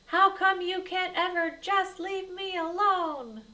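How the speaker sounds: high, loud exasperated snap; snapping at sister. A narrator's reading. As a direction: bark it at a pestering little sister. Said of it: "He snapped at his sis".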